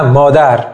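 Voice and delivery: مادر with maa pressed and dar falling; stress placement demo. Shown as a demonstration. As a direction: hit the start of مادر, let it fall away.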